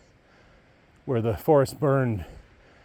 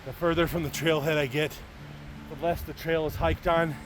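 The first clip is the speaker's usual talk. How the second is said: higher-pitched, winded hiker; out of breath; 4 semitones higher, 5 dB quieter than usual. Real, not acted. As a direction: push out short phrases between puffs of breath. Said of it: "why I'm so out of breath".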